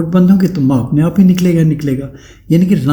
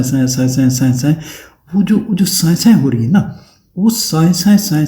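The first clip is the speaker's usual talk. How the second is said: imitated whoosh. Shown as a demonstration. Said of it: "होती ना साए".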